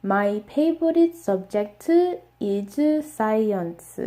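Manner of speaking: Korean-accented English, slow; gently imitating a Korean student's English. Shown as a demonstration. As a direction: favorite as peibourit, mock learner accent. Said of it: "most of my students pronounce this".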